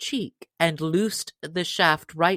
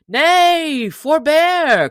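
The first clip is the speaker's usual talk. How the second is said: laughing cry; 11 semitones higher, 11 dB louder, much slower than usual. Acted. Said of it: "laughing until his sore sides ached".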